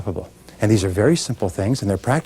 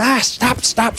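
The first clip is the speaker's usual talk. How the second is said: much higher, cutting off the excuses; mock alarmed cry; 11 semitones higher, much slower than usual. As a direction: jump in high to stop the objection. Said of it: "We go".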